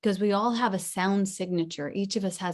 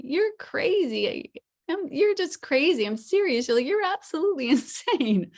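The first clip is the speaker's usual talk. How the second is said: emphatic intonation demo; 9 semitones higher, 4 dB louder than usual. Shown as a demonstration. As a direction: exclaim it high and loud, swooping on the key words. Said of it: "with the intonation, like, you could say".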